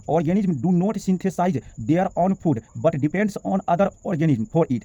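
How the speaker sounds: very slow, careful English reading; slow dictation. Shown as a demonstration. Teacher dictating the English definition slowly to the class. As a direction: read each word slowly so it can be copied.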